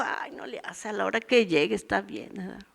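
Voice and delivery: soft, careless mock sigh of someone who doesn't care; apathetic shrug. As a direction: mimic a lazy careless churchgoer. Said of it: "si eres apático". (imitando con desgana, en voz baja)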